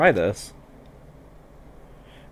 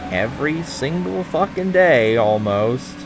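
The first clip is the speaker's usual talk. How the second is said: exasperated rant; 7 semitones higher, slower than usual. Real, not acted. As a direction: vent it, sarcastic and fed up. Annoyed by emergencies outside.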